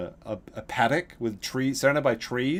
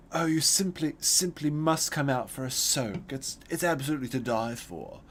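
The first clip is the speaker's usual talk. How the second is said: mocking flamboyant neighbor; 3 semitones higher than usual. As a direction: tease like the old man's soak line. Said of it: "the way the guy said it was so flamboyant".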